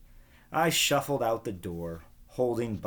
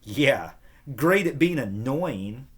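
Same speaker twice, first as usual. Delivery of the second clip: louder, wry sarcastic retort; 4 semitones higher, 7 dB louder than usual. Acted. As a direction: roll your eyes at it. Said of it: "I said".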